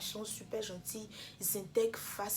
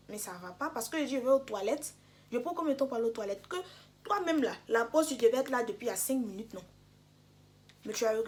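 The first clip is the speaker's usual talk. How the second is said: indignant reproach; 3 semitones higher, 4 dB louder than usual. Retold or imitated. Retold confronting the professor.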